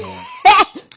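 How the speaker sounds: loud, high burst of laughter; sudden laugh. Real, not acted. Cracking up while telling viewers about HR, bursting laugh. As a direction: crack up mid-story.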